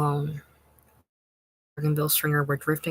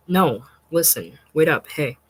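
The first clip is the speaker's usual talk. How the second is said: calling out; 6 dB louder than usual. Acted. Boy calling after Vincent.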